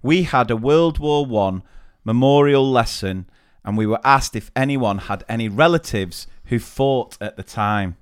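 measured, deliberate reading; careful storytelling delivery; story read aloud. Acted. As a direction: read out a juicy anecdote with pauses. Reads out a listener's story.

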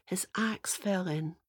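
whispered, slowed down; hushed. A narrator's reading. Storyteller whispering the sad moment, hushed. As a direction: let the loss sink in quietly.

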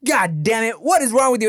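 put-on high, exasperated yell for the kid; exasperated parent yelling. Cosby's parents calling him in, exasperated yell. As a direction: call the kid in like a fed-up parent. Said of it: "his dad looked at him and was like".

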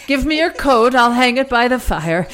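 put-on quaint old-timey hostess voice; hosting like an old storybook grandma; weird voice. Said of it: "Why are you doing the weird voice?".

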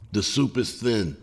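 lightly voiced soothing concession; calm, soothing. A narrator's reading. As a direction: concede it gently to placate the crowd. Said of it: "spoke in a calm, soothing tone".

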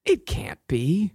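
slow, whispered line reading; mock disbelief whisper. Hosts trade takes of a movie line, whispered slowly. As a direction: whisper it slowly in pretend shock.

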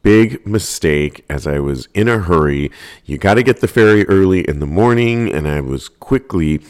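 ordinary talk, nothing marked

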